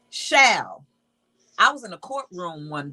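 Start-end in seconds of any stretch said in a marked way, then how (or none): 0.1-0.8 "shall" set apart and said firmly, louder; stress on shall. Shown as a demonstration. Preacher rereading scripture for listeners, emphatic "shall". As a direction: land hard on "shall" as a word by itself. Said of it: "put an emphasis on that word".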